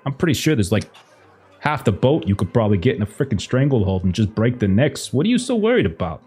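lightly voiced gangster, breezy about violence; casual mob boss. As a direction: talk murder like it's nothing. Mob boss coaching timid guest.

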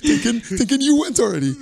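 laughing through the words; can't hold back the laugh while telling it. Real, not acted. Laughing at his friend's prank on him.

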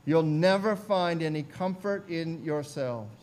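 put-on slow preacher with an Essex accent; imitated Essex country preacher; broad Essex accent. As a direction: preach slowly in broad rural Essex speech. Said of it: "in his broad Essex accent".

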